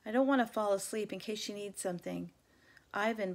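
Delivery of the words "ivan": gentle. Acted. Dog coaxing his sleepless friend, gentle. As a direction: ease into the name kindly. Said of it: "Bob says gently".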